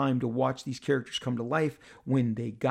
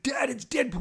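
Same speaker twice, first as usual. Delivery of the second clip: imitating son; 11 semitones higher than usual. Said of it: "And he's like".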